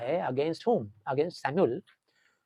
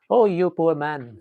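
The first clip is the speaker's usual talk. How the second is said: pitying thought; 6 dB louder, much slower than usual. Retold or imitated. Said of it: "Swami thought".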